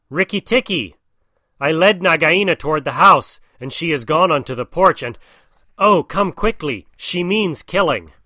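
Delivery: high, loud frantic call; screaming for help. Acted. Bird's wife calls Rikki to save the family, high loud cry.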